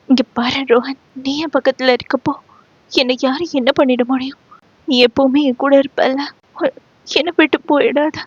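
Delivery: quick, tearful clinging plea; softly crying girl begging her lover to stay. Acted. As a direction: beg him through tears not to leave. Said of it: "அவனை இறுக அணைத்து மாயா அழ".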